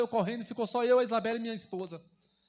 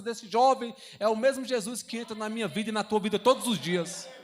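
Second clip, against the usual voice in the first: fervent sermon cadence, louder on each build; preaching; 3 dB louder than usual. Acted. Pastor urging the church to believe, fervent preaching. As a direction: preach it with rising conviction.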